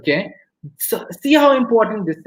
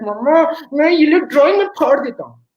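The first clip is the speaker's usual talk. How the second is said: lightly voiced upset kid, pitched up; imitated sulking child; 6 semitones higher, 3 dB louder, much faster than usual. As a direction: play a child in a huff, threatening mum. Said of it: "The child starts sulking".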